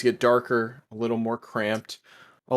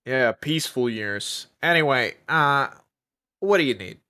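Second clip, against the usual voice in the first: plugging nose voice. Acted. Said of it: "Are you plugging your nose while you do that voice?".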